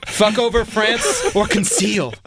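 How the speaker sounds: high, slow mock French voice; french chef. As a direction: ham up a French Comey. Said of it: "He said".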